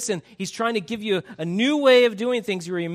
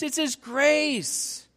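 "it's His grace" slow, His weighted; stress on His; 7 semitones higher, much slower than usual. Real, not acted. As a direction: lean hard on His.

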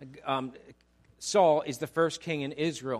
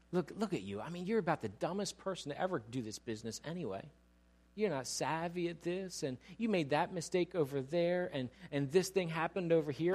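tempter's voice; 4 semitones lower, 7 dB quieter than usual. Acted. Enemy voiced tempting, low.

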